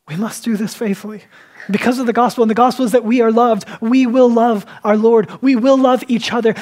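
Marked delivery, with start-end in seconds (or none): 1.7-6.5 raised, emphatic sermon delivery; fervent preaching. Real, not acted. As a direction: exhort the congregation with conviction. Preaches with force.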